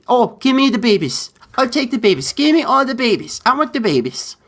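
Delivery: high, mock-saintly old nun voice; bad Mother Teresa impression. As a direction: ham up a gushing Mother Teresa, pitched high. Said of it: "I know that was terrible".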